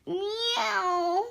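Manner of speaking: soft, drawn-out meow; cat meow. Acted. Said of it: "George went".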